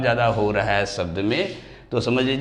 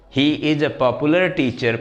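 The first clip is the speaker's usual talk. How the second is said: slow example reading; 3 semitones higher, much slower than usual. Shown as a demonstration. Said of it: "teacher reads example sentence".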